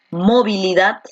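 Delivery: "movilidad" with the stress moved early onto MO; misplaced stress. Shown as a demonstration. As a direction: punch the first syllable of "movilidad", wrongly. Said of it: "la fuerza de voz está aquí en dat".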